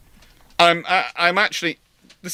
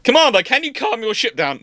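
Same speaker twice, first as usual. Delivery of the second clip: higher, pleading and exasperated; exasperated officer; 10 semitones higher than usual. Retold or imitated. Officer asking the commander to calm Walker, exasperated. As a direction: beg him to rein it in.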